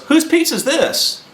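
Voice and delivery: high-pitched mock calling out; retold questioning. Voicing Big Mike finding pizza.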